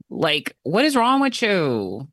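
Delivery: slow, disbelieving exasperation; incredulous question drawn out slowly; exasperated disbelief. Real, not acted. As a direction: ask it slowly, baffled and fed up. Exasperated rant at voters.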